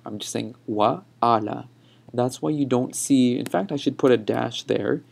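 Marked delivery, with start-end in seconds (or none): 0.7-1.7 "wa ala" with a small break after wa; separated vowels. Shown as a demonstration. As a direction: say "wa", then "ala", vowels not joined. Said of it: "I'm not connecting the vowels there".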